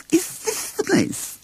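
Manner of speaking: hushed high whisper; quiet Rabbit. Acted. Rabbit quietly asks Christopher Robin, hushed whisper. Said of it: "Rabbit asked quietly".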